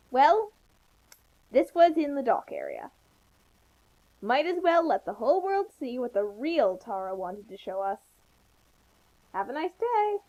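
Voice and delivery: a lightly voiced author; author's note voice. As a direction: play the oblivious fic author. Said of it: "that voice is kind of hard to do".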